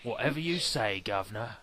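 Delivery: badly faked British "guv'nor" voice; mock British brush-off; bad British accent. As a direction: toss it off in fake British. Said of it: "worst British accent".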